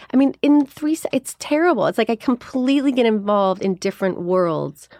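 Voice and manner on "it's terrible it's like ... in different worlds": ordinary talk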